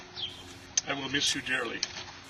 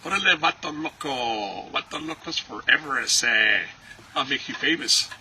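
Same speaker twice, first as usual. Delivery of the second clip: quoting Junior's movie line; 4 dB louder than usual. Retold or imitated. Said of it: "He'd say".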